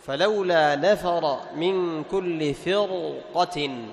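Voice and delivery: the verse drawn out with tajweed; slow Quran recitation. Shown as a demonstration. Teacher recites the verse slowly for the class. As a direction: chant it slowly, word by word.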